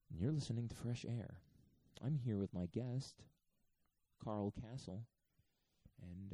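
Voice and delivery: slow, measured public-radio host; NPR voice. Acted. Host introducing Fresh Air guest, NPR voice. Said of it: "I'm doing N P R voice today".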